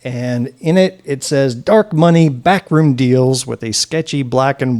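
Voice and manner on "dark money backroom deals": louder, slow dramatic slogan; ominous ad read. Retold or imitated. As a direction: sell it like a scary campaign ad. Reads ominous mailer slogan aloud.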